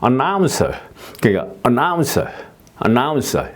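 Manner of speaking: Announcer with NOUN stressed; announcer rising to NOUN then falling like a hill; announcer, stress the middle syllable; stress on second syllable. Shown as a demonstration. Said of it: "두 번째 음절에 액센트가 있는 경우".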